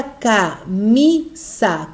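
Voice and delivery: camisa as "ca", "mi", "sa" with gaps; very slow camisa in three separate beats; split into syllables. Shown as a demonstration. Teacher asking for the tonic syllable, camisa syllable by syllable. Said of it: "Qual será a sílaba tônica?".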